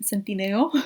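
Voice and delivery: Centineo said with Spanish vowels, tsen-tee-NEH-oh; Latina accent. Shown as a demonstration. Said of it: "that's how I would say with my Latina accent".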